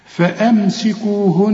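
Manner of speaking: slow recitation of فأمسكوهن, lingering on the nun; doubled nun at pause. Shown as a demonstration. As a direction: hold the final ن of فأمسكوهن as a long hum. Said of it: "نطق النون المشددة عند الوقف".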